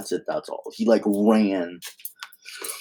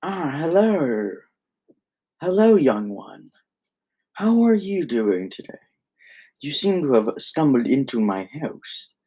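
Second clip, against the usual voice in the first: put-on old man; 5 semitones higher than usual. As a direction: give a hint of a kindly elder greeting a child. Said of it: "there's this old, there's this man".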